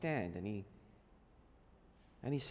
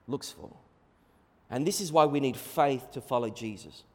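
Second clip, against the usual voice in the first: normal talking voice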